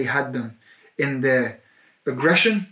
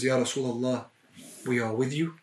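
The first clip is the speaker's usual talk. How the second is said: ordinary talk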